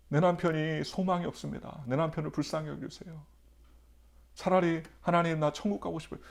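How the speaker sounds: wife's tearful prayer. Retold or imitated. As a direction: plead to God as the weeping wife, lightly voiced. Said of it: "그러면서 기도를 막 하는 거예요". (울며 기도하는 아내 흉내)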